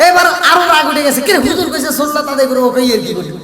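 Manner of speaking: telling it through laughter; laughing. Real, not acted. Preacher laughing while acting out the angry wife. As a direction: laugh while recounting the wife's anger.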